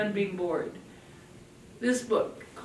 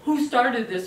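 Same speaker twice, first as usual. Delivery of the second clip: a hint of a furious Godzilla parent; lightly voiced angry demand; mild mock furious yell; 2 semitones higher, 3 dB louder than usual. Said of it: "Godzilla comes in and is furious and yells".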